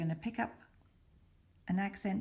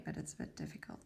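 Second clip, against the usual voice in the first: a lowered aside whispered mid-task; muttered whisper; 10 dB quieter, much faster than usual. Real, not acted. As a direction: whisper under your breath, much lower and softer. Whispers while threading needle.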